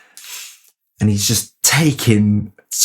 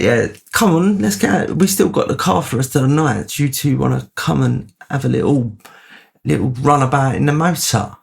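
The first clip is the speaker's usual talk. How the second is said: higher, keen put-on voice; eager invite; 4 semitones higher than usual. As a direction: egg them on, much higher and eager. Friends' eager invitation retold.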